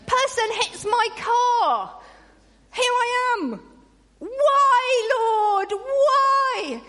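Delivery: high, loud, hammed-up whining complaint; a hammed-up churchgoer grumbling about a car crash; mock grumbling rant. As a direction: play the hard-done-by moaner. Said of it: "does that sound familiar?".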